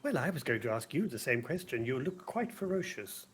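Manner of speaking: gentle, lilting reply to a timid creature; kindly reassurance; kindest voice. Acted. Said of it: "in my kindest voice".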